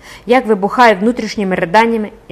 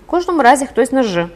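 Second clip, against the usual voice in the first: louder, higher, cocky schoolboy reply; cheeky; 6 semitones higher, 5 dB louder than usual. A narrator's reading. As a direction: answer back with brazen cheek. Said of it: "зухвало відповів рум'яний школяр". (зухвало)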